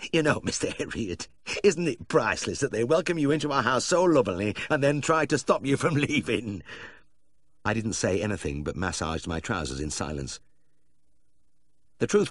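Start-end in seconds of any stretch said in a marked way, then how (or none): 0.1-6.6 high, amused, breaking into laughter; giggling. A narrator's reading. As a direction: giggle while teasing the vet. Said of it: "He was still giggling".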